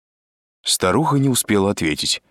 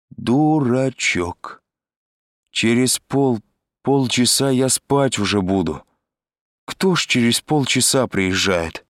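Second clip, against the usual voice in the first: higher, drawn-out tipsy scolding; drunk Selma; 5 semitones higher, slower than usual. A narrator's reading. Drunk Selma scolds Andrei for delaying, tipsy drawl. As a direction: chide slowly and stumble, as if drunk. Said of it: "совершенно пьяный голос Сельмы".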